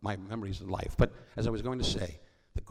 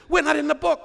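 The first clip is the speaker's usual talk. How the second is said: high, loud whiny complaint; mock the relatives' whining, pitched way up; high mock whine of the relatives; 11 dB louder than usual. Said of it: "I have relatives that say".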